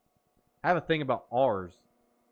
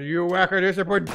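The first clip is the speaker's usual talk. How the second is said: a lightly voiced Papa Sensei, louder and falling; quoting Papa Sensei; 5 semitones higher, 8 dB louder than usual. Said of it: "As Papa Sensei once said".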